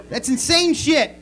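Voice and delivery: high, slow exclamation of disbelief; amazed. Real, not acted. Comic reacting to the bears' trek, loudly amazed. First take of repeated amazed remark.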